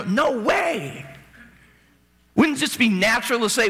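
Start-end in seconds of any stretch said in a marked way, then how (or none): 0.0-1.0 high pitched mock shout; Peter's shout again. Peter holding Jesus, a high mock shout. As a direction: cry it out as Peter grabbing his shoulder. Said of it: "you know".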